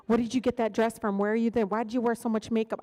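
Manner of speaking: loud, nagging mother's questions. Retold or imitated. Speaker mocking her mother's Facebook comments, loud nagging. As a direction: fire off mom's nosy questions. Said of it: "she sees everything".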